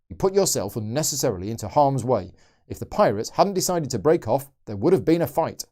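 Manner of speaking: a lightly voiced stern captain; ship's captain voice. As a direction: scold her like a ship's captain. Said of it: "I'm ship's captain voice".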